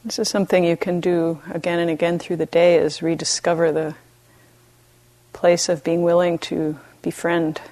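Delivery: gentle meditation guidance with long pauses; unhurried, even voice, leaving space between phrases; guided meditation. Real, not acted. Teacher guiding retreatants to befriend themselves, calm meditation voice.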